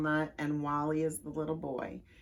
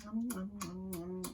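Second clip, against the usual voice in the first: pretend eating; 9 dB quieter than usual. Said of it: "let's pretend we're eating something yummy".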